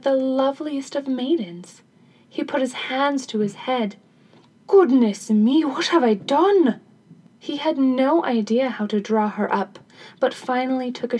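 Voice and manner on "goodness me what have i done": loud cry of dismay; dismayed exclamation. Acted. King regrets throwing her out, loud dismayed exclamation. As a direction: exclaim it louder, rising in dismay. King horrified at what he did.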